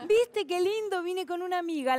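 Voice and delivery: sarcastic echo. Retold or imitated. She mocks the relatives' phrase.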